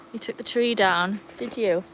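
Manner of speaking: ordinary delivery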